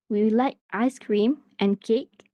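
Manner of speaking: slow, rising on "ice cream" and on "cake"; double rise intonation. Shown as a demonstration. Teacher showing learners two rises, double rise intonation. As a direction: lift "ice cream", then lift "cake" too. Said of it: "we have double rise intonation".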